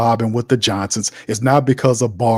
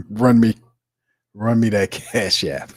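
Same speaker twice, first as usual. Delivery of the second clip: imitating Umar Johnson. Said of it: "like Umar Johnson says".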